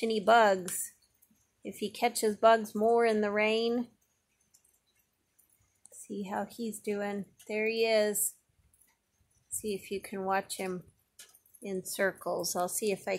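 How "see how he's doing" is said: hushed whisper, slowed down. Real, not acted. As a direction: whisper so you don't disturb it. Peeking quietly at the spider.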